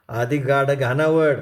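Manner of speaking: slow harsh command. A narrator's reading.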